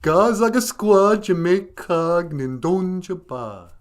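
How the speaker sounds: goofy dog, high and drawn out; high-pitched goofy dog character; Benjamin. Pretend. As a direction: teach the words as a goofy talking dog. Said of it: "you know, goofy of the two".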